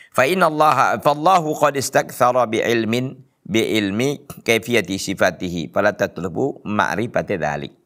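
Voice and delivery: slow, chanted reading of the Arabic quote; Arabic text recitation. Acted. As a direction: intone the scholarly text like a recitation. Reads Arabic text of scholar.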